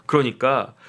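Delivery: breathy unvoiced aside; hushed whispered 그러니까. Real, not acted. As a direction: drop to a whisper for this word. Aside on Kang's resignation statement.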